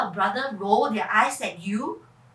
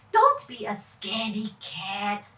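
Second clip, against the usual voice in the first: put-on taunting kid voice; teasing boy; 4 semitones lower than usual. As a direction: tease her like a bold boy. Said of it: "Kevin said".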